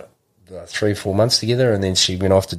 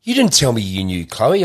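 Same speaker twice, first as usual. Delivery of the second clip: high, excited mock mate; retold mate's voice; 7 semitones higher, 3 dB louder than usual. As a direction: pitch it up like a mate bursting with news. He goes.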